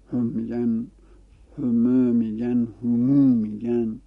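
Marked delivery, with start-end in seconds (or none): 1.6-4.0 "هم" with a short u, then "همو" with the u lengthened, said slowly; slow demo of "هم" against "همو"; vowel variant demo. Shown as a demonstration.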